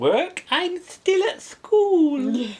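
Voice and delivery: put-on very high, tiny, slow little girl voice. Quoting how she answers when asked, doing a little girl voice. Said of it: "she does a real little girl voice".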